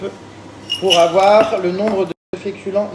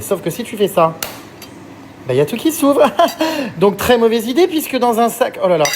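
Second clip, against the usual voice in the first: laughing; 5 semitones higher, 4 dB louder than usual. Real, not acted. Laughing at bad zipper.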